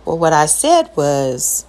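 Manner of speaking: slow, measured restatement; deliberately toned down and unhurried. Shown as a demonstration. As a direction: restate it in a careful, slowed-down tone. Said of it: "if I go with the tone".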